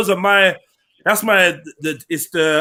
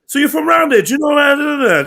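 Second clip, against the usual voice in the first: raised, pushy imitation; mock confrontation; 5 semitones higher than usual. Imitating fast talkers squaring up to someone, mock confrontation. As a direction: act out someone pressing a stranger, higher voice.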